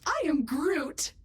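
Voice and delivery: slow, drawn-out catchphrase; Groot. Shown as a demonstration. AI assistant demonstrating a voice, slow Groot line. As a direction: stretch the words out slowly. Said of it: "I can sound like any".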